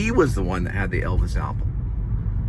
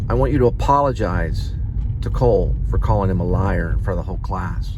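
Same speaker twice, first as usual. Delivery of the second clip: a teacher laying down the law, raised voice; stern teacher. Retold or imitated. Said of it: "she was getting kind of stern".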